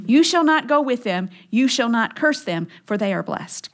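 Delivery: firm recap, softening at the end; brisk restated command. Acted. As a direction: restate God's order matter-of-factly, without lingering. Restating God's command to make it clear.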